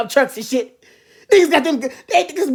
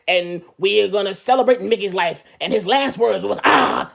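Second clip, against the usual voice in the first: low, slow solemn pastor; mock pastor at the funeral, low and solemn; 5 semitones lower, 3 dB quieter, slower than usual. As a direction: eulogise it gravely, a bit lower. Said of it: "the pastor had to go".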